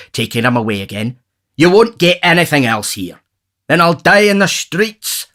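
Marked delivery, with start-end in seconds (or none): 1.6-3.2 overseer, higher and louder, stern. Retold or imitated. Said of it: "says our overseer". 3.7-5.3 high put-on vagrant voice. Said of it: "says the vagrant".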